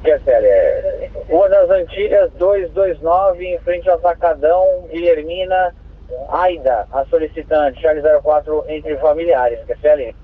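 crackly two-way radio transmission; squelchy handheld radio; police radio. Real, not acted. Dispatcher repeats address over radio.

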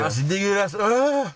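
gagging, a high retch; shuddering retch; dry heaving. Real, not acted. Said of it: "regardez le frisson".

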